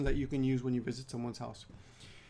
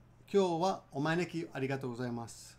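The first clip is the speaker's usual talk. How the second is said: quicker natural take; natural speed; faster than usual. Shown as a demonstration. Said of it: "Let's do it again".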